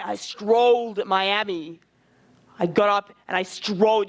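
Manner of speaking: low, deliberate character voice; Tyrion. Shown as a demonstration. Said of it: "Keep the Tyrion voice".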